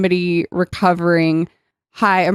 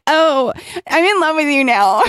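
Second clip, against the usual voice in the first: higher put-on gushing voice breaking into laughter; mock swooning while laughing; 10 semitones higher than usual. Mocking Kelly's sudden confession to Tad, gushing through laughter. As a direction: gush it through giggles.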